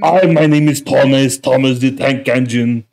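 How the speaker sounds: European-accented cartoon train voice; lightly put-on European accent for a talking train; Thomas the Tank Engine. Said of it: "it's the European train".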